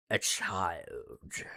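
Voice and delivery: soft unvoiced whisper. Real, not acted. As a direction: whisper it grimly. Whispered grim punchline.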